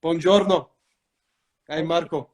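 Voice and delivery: playful Italian greeting voice; lightly hammed-up Italian character; Marco, Italian accent. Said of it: "This is more of a Marco".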